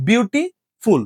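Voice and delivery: বিউটিফুল split by a pause before ফুল; বিউটি... ফুল, in two separated parts; word with a break. Shown as a demonstration. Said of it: "এটা বলতে গেলে break দেওয়া যায়".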